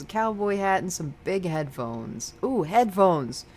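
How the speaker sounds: lively, lilting character read; friendly game character. Acted. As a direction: voice the claw machine scene with cheerful curiosity. Reads game character's dialogue.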